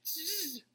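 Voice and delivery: drawn-out imitated buzz; buzzing noise. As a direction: buzz like a mind zoning out. Imitates the mind drifting off.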